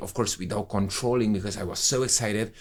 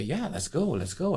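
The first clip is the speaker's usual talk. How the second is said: higher, eager let's go; a young man thrilled by the invitation, voice raised; eager yes; 9 semitones higher than usual. Retold or imitated. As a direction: jump at the offer, voice up high. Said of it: "and say".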